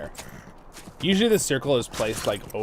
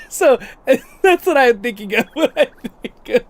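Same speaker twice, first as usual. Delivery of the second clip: higher and louder, words bursting through laughter; can't keep it together, real laughter; laughing; 11 semitones higher, 9 dB louder than usual. Real, not acted. Giggling at the movie scene she told viewers, real laughter. Cracking up at own story.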